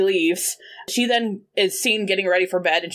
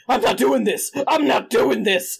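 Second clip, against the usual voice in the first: panicked yelling; 3 semitones higher than usual. Retold or imitated. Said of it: "running out and going".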